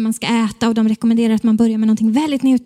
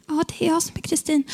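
soft, higher timid reply; timid answer; 4 semitones higher, 6 dB quieter than usual. Retold or imitated. Patient answering the nurse at reception, timid. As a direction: answer small and softly.

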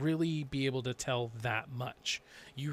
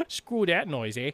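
mock Canadian; 2 semitones higher, 4 dB louder than usual. Mocking console peasants in a playful Canadian accent. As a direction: toss in a jokey Canadian accent. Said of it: "I don't know why I went Canadian".

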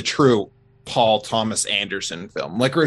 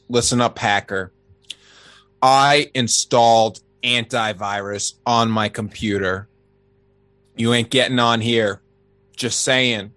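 wrestling promo. Acted. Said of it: "I'm gonna cut a promo right here on the hacker".

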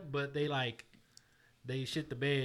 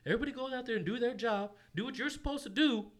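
halftime pep talk; 3 semitones higher than usual. Shown as a demonstration. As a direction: pump the team up from twenty-four down. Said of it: "I wanna hear a little bit about your halftime".

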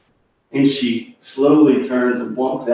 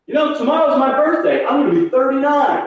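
put-on much higher, girlish pitch; voiced chatty woman; 11 semitones higher than usual. One woman tells her friend about her birthday, imitated high voice.

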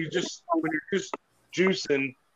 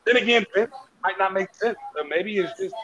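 annoyed rant; 3 semitones higher than usual. Real, not acted. Cohost venting about conflicting wrestling accent stories, annoyed. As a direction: rant in exasperation at the contradictions. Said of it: "This is where I get annoyed".

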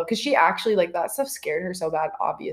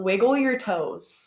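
slow instruction; much slower than usual. Shown as a demonstration. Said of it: "this is a really weird way".

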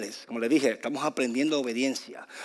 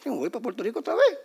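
exasperated puff, then higher voice; retold frustration; 8 semitones higher than usual. Preacher recalling his wish to fly home, frustrated. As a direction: huff and threaten to give up. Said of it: "yo estaba tan frustrado".

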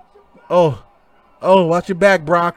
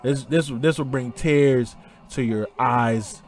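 lower, softer, choked-up tribute; getting emotional; 5 semitones lower, 9 dB quieter than usual. Real, not acted. Host paying tribute to Eddie after the match, quiet and choked up. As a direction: let the words sink, moved almost to tears. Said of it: "as I'm getting all emotional".

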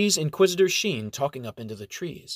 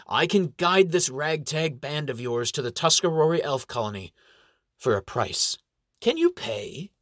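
put-on sly old elf. Elf gobbling stew, bargaining.

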